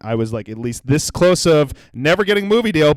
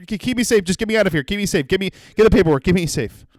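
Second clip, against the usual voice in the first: higher-pitched, babbled begging; mock screamed plea; 4 semitones higher, faster than usual. Overwhelmed customer begging the staffer, mock pleading without full scream. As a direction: beg frantically in a mock helpless voice. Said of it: "that's what I was screaming".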